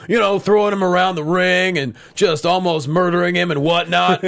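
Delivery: amused, emphatic retelling with a laugh creeping in; Braun. Retold or imitated. Retelling how a wrestler explains things, light amused impression. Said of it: "I love the way Braun explains things".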